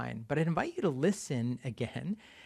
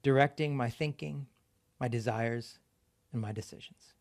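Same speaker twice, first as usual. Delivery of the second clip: prayer. Acted. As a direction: pray it aloud to the church, line by line. Leads congregation in prayer reading.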